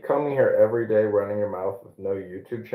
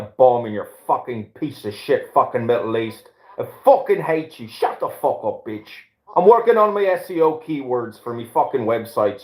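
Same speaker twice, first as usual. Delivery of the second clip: lightly voiced hateful ranting bigot, a little faster in places; Tim Rumbleson rant. Asked by host to imitate Tim Rumbleson, a lightly voiced angry rant. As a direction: play an unhinged online bigot, mostly in your own voice. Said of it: "let me do a dialogue with Rabbi here, and I will be an anti-Semite".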